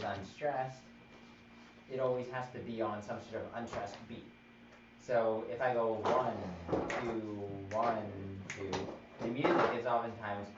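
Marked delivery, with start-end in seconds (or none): 5.0-8.0 loud, slow counted beats; counting beats. Shown as a demonstration. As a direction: count the beat out for the class. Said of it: "One is your strong beat".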